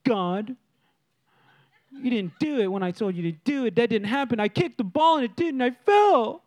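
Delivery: mock pouty complaint to God; imitated childish grumbling, rising; sulking. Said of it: "stuck in the sulking".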